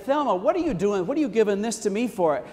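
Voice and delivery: overwhelmed, protesting the gift; astonished. Retold or imitated. Grandma moved by gift.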